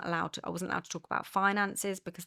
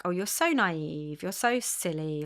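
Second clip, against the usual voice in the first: condescending; much slower than usual. Retold or imitated. Imitating partner's belittling.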